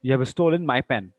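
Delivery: "my pen" given extra weight; stress on MY PEN. Shown as a demonstration. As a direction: make "my pen" the point. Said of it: "Emphasis is on my pen".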